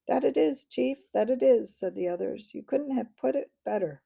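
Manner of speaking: high, loud, eager echoing voices; fawning chorus. A narrator's reading. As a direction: agree with the chief, delighted. Chorus agrees with the chief.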